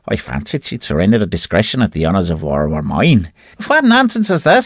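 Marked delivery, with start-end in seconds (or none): 3.7-4.7 high, indignant woman's voice; indignant Annie. A narrator's reading. Annie rebuking Mulvaney's arm round her, high indignant. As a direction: draw yourself up and scold. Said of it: "says she, drawing herself up".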